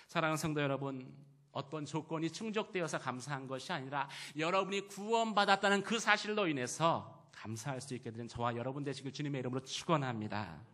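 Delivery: loud pulpit blessing; preacher's exhortation. Real, not acted. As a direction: exhort the congregation, ending in a blessing. (힘주어 축원하는 설교)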